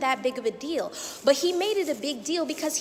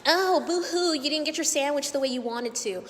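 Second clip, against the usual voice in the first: mocking taunt. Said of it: "this man is mocking me".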